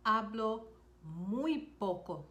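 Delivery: "Hablo" then a pause, then "muy poco" slowly; slow, split teaching repeat. Shown as a demonstration. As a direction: break it after "Hablo" and stretch "muy poco". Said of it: "You could also say".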